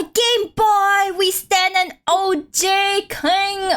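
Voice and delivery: high, excited Gen Z hype; Gen Z slang. Pretend. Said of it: "I'm speaking like a Gen Z now".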